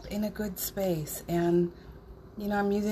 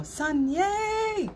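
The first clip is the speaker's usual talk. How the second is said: a squeaky, high-pitched cheer on yay; 11 semitones higher, 3 dB louder than usual. Shown as a demonstration. Leading the friends in a new cheer, pitched high. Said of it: "You should say it like that".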